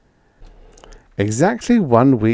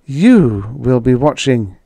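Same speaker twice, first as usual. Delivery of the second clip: slow, higher, louder retort with an acid edge; acid interruption; 4 semitones higher, 5 dB louder, slower than usual. A narrator's reading. Edith cutting in on Roy's teasing, acidly. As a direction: cut in acidly, stretching the words. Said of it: "Edith cut in acidly".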